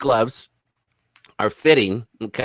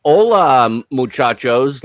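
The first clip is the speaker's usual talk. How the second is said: hammed-up Spanish greeting; 2 semitones higher, 8 dB louder, slower than usual. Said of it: "if you said".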